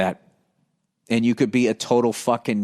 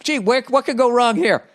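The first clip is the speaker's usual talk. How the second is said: higher, mock-innocent sarcasm; sarcastic; 9 semitones higher than usual. Real, not acted. Host mocking the fan's stoned donut plan, sarcastic and higher. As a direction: play dumb, dripping with irony.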